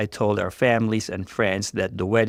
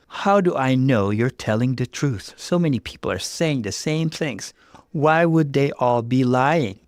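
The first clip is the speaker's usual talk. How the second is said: higher, pleading questions; doubting woman; 4 semitones higher than usual. Acted. Jess questioning Mark, upset doubt. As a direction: beg for an answer.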